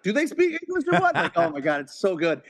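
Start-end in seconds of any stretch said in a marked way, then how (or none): 0.0-1.2 much higher, mock-incredulous bark; a playful high take on Jules; imitating Jules. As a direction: sneer it like Jules grilling Brett. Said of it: "the Brett scene".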